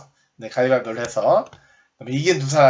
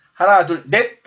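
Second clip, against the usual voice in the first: higher, louder count-off call; 지도자 구호; 5 semitones higher, 6 dB louder than usual. Shown as a demonstration. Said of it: "리더가 번호를 바꿔서". (지도자가 높고 크게 외치는 구호)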